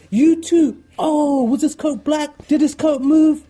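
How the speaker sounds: high, loud eager questions, laughing; excited questions. Retold or imitated. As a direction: pepper him with excited questions. Rand and Matt react eagerly.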